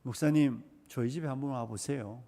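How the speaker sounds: soft, grumbling plea of a churchgoer; quiet imitation of a congregant; hushed mock complaint. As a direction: mutter it like a fed-up spouse. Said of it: "나는 언제나 이렇게 말합니다".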